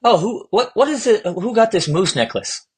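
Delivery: mock meme voice. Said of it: "I saw a meme on Instagram".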